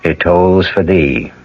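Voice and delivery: measured, solemn host narration, slowing on the quote; radio mystery narration. Acted. Host closing the tale for listeners, solemn measured narration. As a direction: lay the tale to rest gravely.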